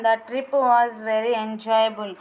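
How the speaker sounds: each English word spaced out slowly for pupils to copy; slow dictation reading. Shown as a demonstration. Teacher reading answers to her class at slow dictation pace. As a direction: read it at dictation speed, word by word.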